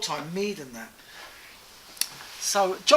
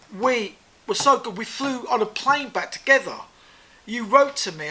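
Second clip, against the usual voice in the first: raised-voice retold reproach; indignant confrontation; 4 semitones higher, 6 dB louder than usual. Rick confronting Peter over being snubbed, indignant. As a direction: remind him forcefully of the friendship.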